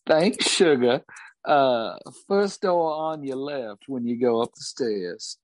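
a hint of a Southern barmaid accent. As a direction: thank him like a Southern barmaid. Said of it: "Thornbuckle's accent".

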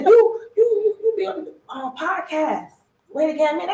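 high, stammering excited fan, easing down. Retold or imitated. Fan placing a podcast host at the bar, excited. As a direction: imitate a fan fumbling for the name. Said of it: "The girl was excited".

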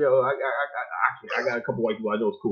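stall, then blurt it out; hesitant self-quote. Retold or imitated. Telling Pan-Africans he has white friends, stammering then rushing. Acting out own hesitant reply.

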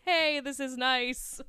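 drawn out slowly, pleased; slow contented aside. Retold or imitated. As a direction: savour the cute moment. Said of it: "And I was like".

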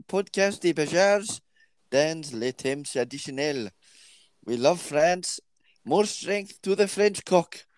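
hint of a French twang; a wee French twang on buzzwords; light French accent. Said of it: "maybe just a wee twang".

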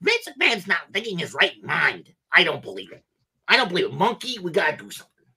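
outraged parrot complaining about the boss; Iago impression. Parrot Iago rants about a Saudi WWE buyout. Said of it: "Do an Iago impersonation".

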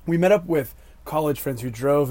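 hoarse voice after shouting at refs; raspy, worn-out voice; smoker's rasp. Real, not acted. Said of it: "I sound like a lifelong chain smoker right now".

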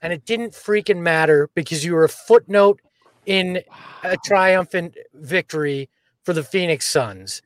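trash talk to the trolls; taunting the trolls with swagger; mocking send-off to the haters; attitude. Real, not acted. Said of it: "That's, that's attitude".

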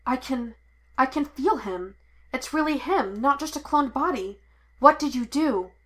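stunned as he senses him; rising shocked questions. Acted. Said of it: "His eyes widened in shock".

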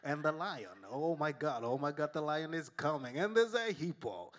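put-on nature-show narrator with an accent, building from low to lively; mock Discovery Channel voiceover; accented documentary narrator. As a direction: narrate the wildlife chase, rising toward excitement. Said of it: "They always get a guy with a, with an accent too".

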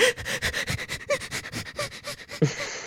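high, breathy mock sobbing; hammed-up child crying; imitated child's sob. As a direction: sob like a crushed toddler. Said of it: "and he's like".

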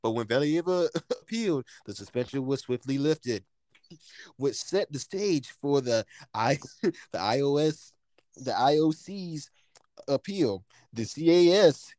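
news reporter voice. Shown as a demonstration. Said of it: "I cannot do this with a straight face".

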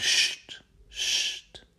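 hissed shush. Acted. Odysseus hushes his soldiers, sharp shush. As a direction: hush them sharply. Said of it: "zegt Odysseus".

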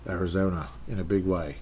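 put-on British accent wandering toward Australian; muddled British-Australian accent. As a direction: attempt a hammy British accent, not quite landing. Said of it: "which accent I'm even trying to do".

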